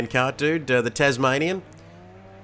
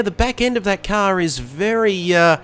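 excited; 5 semitones higher, 3 dB louder than usual. Real, not acted. Live play-by-play commentary.

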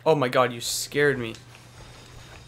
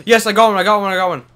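gasping, thrilled and louder; excited; 5 semitones higher, 7 dB louder, faster than usual. Real, not acted. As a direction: celebrate the find breathlessly. Finally finds a lightsaber.

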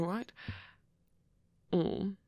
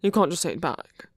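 flustered; 5 dB louder than usual. Acted. Flustered rambling.

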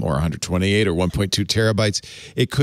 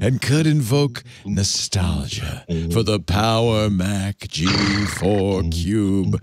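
sexy voice; slower than usual. Acted. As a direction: purr it like a late-night radio host. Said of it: "as I do a dramatic reading of Rumor".

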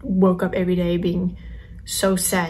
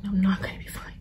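unvoiced, softer denial; whispered protest; 5 dB quieter, much faster than usual. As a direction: breathe it out like a hopeless protest. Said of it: "I'm like".

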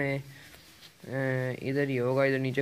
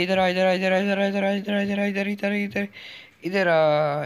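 taunting call; 5 semitones higher, 4 dB louder than usual. Real, not acted. Luring enemy into a fight.

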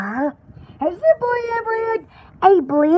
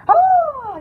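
high, louder shuddering "oh"; 8 semitones higher, 3 dB louder than usual. Shown as a demonstration. Showing someone how to shudder, high shuddering oh. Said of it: "how do you shudder? Is it like this".

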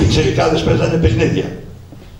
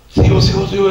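eager calling out; 6 semitones higher, 6 dB louder than usual. Retold or imitated. Boy calls out to volunteer.

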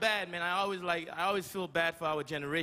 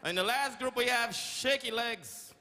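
race announcer. Retold or imitated. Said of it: "It's always like".

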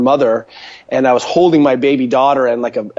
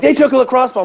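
high, whiny complaint; whiny staff voice; 11 semitones higher than usual. Retold or imitated. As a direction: lightly mimic a fretting staffer.

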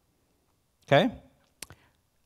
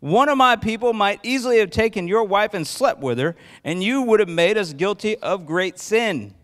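raised, scolding rebuke; yelling; 4 semitones higher than usual. Acted. Abimelech scolding Isaac about the wife, mildly raised. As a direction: lecture him on the danger. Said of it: "yelling again".

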